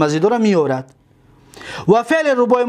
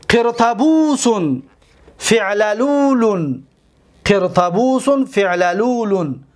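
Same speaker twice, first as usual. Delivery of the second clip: slow careful demo; slower than usual. Shown as a demonstration. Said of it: "teacher spells out word patterns".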